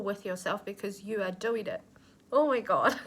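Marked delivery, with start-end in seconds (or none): 2.3-3.1 laughing. Real, not acted. Laughs through tears.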